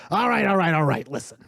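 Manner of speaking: a hint of a cornered dealer giving in; lightly voiced beholder boss. Lellard relents to the questioner, mildly insistent. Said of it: "he goes".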